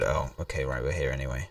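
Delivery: ordinary talk, nothing marked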